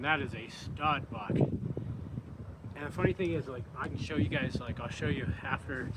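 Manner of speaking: winded, talking between breaths; catching his breath while talking. Real, not acted. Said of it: "I catch my breath here".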